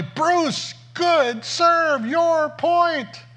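put-on high, chirpy praise from a sweet old lady; praising his serve in a high old-lady voice; cheerful old lady. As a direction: sing it out like a cheerful granny. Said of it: "She just said cheerfully".

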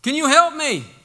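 loud, high, eager plea; relieved calling out. Acted. Hanging man learns it's the Lord, calls eagerly for help. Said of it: "And so the man says".

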